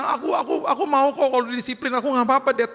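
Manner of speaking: put-on high, earnest little girl; little daughter voice. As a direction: promise to accept discipline like a young daughter. Daughter accepting discipline.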